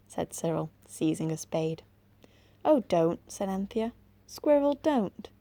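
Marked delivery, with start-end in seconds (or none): 2.6-5.3 high, loud, urgent plea; urgent pleading. Acted. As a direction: beg them to stop.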